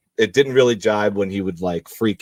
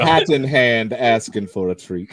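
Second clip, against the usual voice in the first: Southern lawyer voice; 4 dB louder than usual. Pretend. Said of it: "it's very Southern lawyer".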